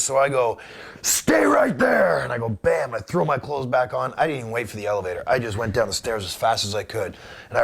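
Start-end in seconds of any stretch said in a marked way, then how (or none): 1.0-2.2 hissed threat. Retold or imitated. Furious reply to threatening caller.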